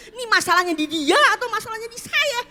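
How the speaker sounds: high laughing, half-crying question; laughing despair. Real, not acted.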